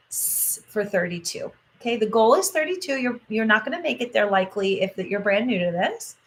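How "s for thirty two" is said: long soft hiss on the s; drawn-out s like a snake. Shown as a demonstration. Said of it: "hissing sound like a snake".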